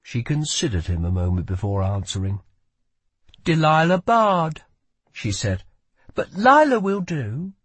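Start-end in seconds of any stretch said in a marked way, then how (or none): 3.4-4.6 put-on higher, sharp girl voice; young woman voice. Lila gives her name. 6.1-7.5 put-on higher, sharp young woman's voice. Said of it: "she used it like a knife".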